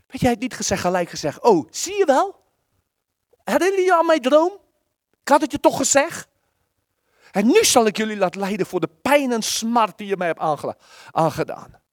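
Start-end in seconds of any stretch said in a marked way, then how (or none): 1.4-11.8 mock triumphant revenge tone; gloating Joseph. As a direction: gloat over the brothers who hurt him. Imagined gloating Joseph to brothers.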